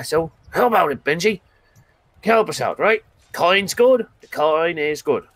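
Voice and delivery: a touch of the pushy pal wheedling for help; lightly voiced Demonarin. Demon pleads with elf.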